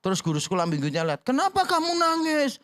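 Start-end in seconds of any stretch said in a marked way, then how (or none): 1.2-2.6 higher, concerned teacher voice; Sunday school teacher to a crying child; teacher asking. Retold or imitated. Guru sekolah minggu bertanya. (guru bertanya dengan nada tinggi)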